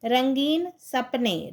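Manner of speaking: रंगीन सपने drawn out slowly, each syllable clear; slow model reading. Shown as a demonstration. Teacher to pupils, modelling the phrase, slow and careful. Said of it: "teacher models word pairs".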